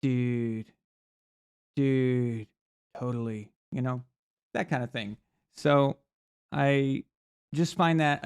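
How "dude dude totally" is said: low, drawn-out dazed amazement, lightly imitated; Joe Rogan. Host imitating podcaster while someone's talking, low mock amazement. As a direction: lightly mimic an impressed podcast listener. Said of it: "you know, like Joe Rogan".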